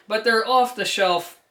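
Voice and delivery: a strong Jersey accent on "off the shelf", the o open and drawn. Real, not acted. Reviewer's Jersey accent slips out describing speaker binding posts. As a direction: slip into his natural Jersey accent. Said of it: "I just have a Jersey accent".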